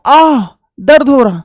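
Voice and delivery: slow, drawn-out pretend ache; acted-out "ah" of pain; mock pain. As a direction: moan it as a pretend complaint. Acting out pain as example.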